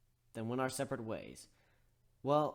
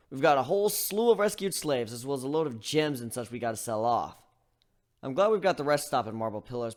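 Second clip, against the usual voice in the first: louder, higher, upbeat; brisk planning; 4 semitones higher, 10 dB louder than usual. Acted. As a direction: plan the route with energy. Gilda narrates, energetic.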